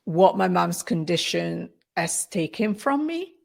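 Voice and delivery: halting, holding back tears; real emotion welling up, with long pauses; about to tear up. Real, not acted. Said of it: "I'm gonna tear up".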